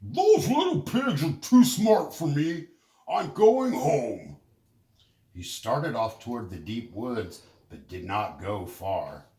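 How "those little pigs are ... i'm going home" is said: higher, louder wolf voice, slowing on the end; fake giving up. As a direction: pretend loudly to give up. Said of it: "Then he said out loud".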